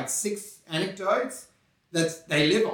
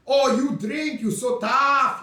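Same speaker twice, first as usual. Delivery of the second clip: mocking praise; 5 semitones higher, slower than usual. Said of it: "They were taking the piss".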